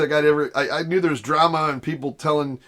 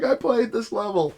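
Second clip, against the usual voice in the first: mild excitement; 8 semitones higher than usual. Retold or imitated. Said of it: "getting all excited".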